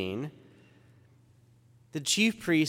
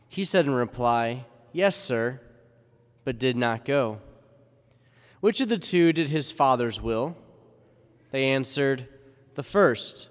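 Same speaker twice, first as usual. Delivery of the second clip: gospel reading. Acted. Gospel read at Mass.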